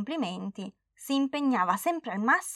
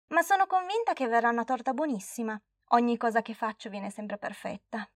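lightly voiced child, boasting; a touch of a cocky girl; proud little girl. Girl boasts to grandma her cake will be perfect, lightly childish.

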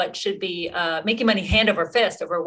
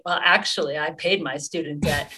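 mildly smug correction, dropping lower at the end; lightly smug, understated comeback; a bit smug; 4 semitones lower than usual. Real, not acted. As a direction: say it with a touch of self-satisfaction. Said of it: "get to be a bit smug and say".

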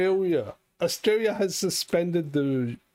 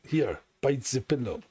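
put-on Mexican accent; 3 semitones lower than usual. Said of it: "in a Mexican accent".

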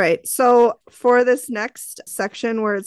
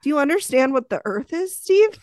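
mock condescending; 4 semitones higher than usual. Mocking Steve.

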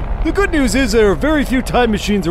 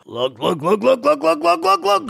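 dopey chant climbing higher; dopey cartoon bellow; 4 semitones higher than usual.

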